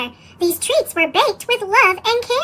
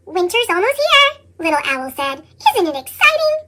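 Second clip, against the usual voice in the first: eager owl. Acted. Little Owl telling Bear about winter, eager. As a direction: bubble over about winter.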